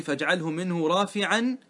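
slow verse quote; slow recitation; quoted verse. Shown as a demonstration. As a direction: recite the verse line measured. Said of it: "هذا معنى قولي".

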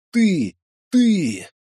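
high, loud outraged sob; indignant sobbing cry. Acted. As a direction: blurt it out through a sob, offended. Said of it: "возмущённо всхлипнул". (возмущённый всхлип)

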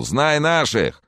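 high, slow drawn-out cheer; boastful drawn-out yell; shout from the crowd. Acted. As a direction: call it out across the bar. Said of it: "кто-то крикнул".

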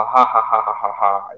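quiet mock evil villain laugh; a soft, hammed-up villain cackle; mustache twirling villain. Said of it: "vai dar risada maligna".

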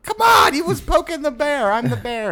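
high-pitched, loud mock outburst; hammed-up squealing self-defense; indignant protest. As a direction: protest wildly in your own defense. Acts out defending himself to critics.

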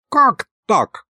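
high-pitched startled protest; startled objection. A narrator's reading. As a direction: jump in, voice shooting up. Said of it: "вскинулся Михалыч". (вскинувшись, возмущённо)

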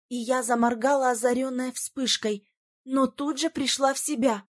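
usual speaking voice

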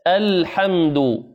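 الحمد said very slowly with a thin hamza; careful recitation; correct light hamza. Shown as a demonstration. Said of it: "عندنا في العربية آ".

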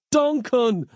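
high desperate yell; frantic cry for Duncan. A narrator's reading. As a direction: shout to be heard over the chaos. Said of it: "yelled Nick".

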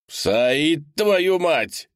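freezing man outside begging to be let in; desperate shouting man. A narrator's reading. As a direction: pound on the door with your voice. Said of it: "кричал Леонардо".

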